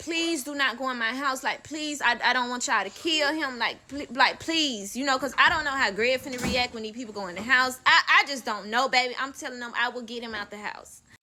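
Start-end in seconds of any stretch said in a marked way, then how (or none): 0.0-4.9 acted-out desperate pleading. Retelling begging police not to go into the house, retelling desperate begging. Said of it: "I'm begging them".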